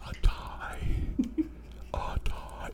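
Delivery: barely voiced, breath-only whisper; mouthed whisper. Shy passenger silently correcting the storyteller, mouthed whisper. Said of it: "Like, like, she mouthed it".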